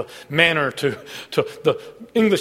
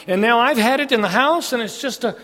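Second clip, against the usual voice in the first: building excitement; 7 semitones higher than usual. Acted. Preacher builds excitement over find.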